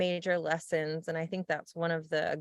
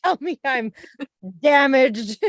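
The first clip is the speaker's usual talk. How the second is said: mock ogre voice; 7 semitones higher, 11 dB louder than usual. Mocking her friend's skin worries in a whiny troll voice. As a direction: ham up a pitiful ogre begging for pity. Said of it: "Look how troll, like, an ogre-esque I am".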